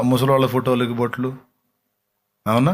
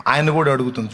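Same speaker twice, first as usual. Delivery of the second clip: usual speaking voice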